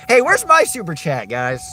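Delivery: high, pleading mock whine; playful high-pitched begging; mock whiny plea. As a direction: beg the chat in a high, put-on whine. Begging chat for donations.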